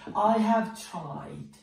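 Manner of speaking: each word drawn out slowly; slow teaching read. Shown as a demonstration. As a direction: spell it out slowly for the class. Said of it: "نحط تصريف التالي". (نطق بطيء جداً)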